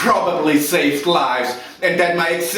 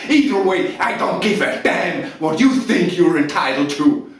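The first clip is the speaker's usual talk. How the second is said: loud, raised-pitch furious outburst; angry tirade; 4 semitones higher, 4 dB louder than usual. Acted. Officer defending himself to Lieutenant Weinberg, loud angry tirade. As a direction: thunder contemptuously, leaning hard on the key words. Officer erupts under questioning, acted monologue.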